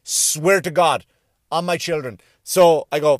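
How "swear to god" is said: ordinary talk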